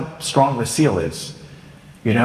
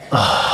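exasperated huff; 5 semitones lower than usual. Shown as a demonstration. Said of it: "hear me huff and puff and go".

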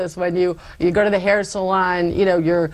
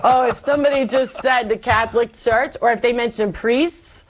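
laughing recollection; 5 semitones higher than usual. Real, not acted. Recalling her angry rants.

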